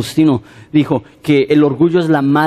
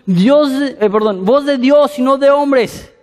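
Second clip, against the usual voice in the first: mock crowd cheer; 9 semitones higher than usual. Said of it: "empiezan a gritar la multitud".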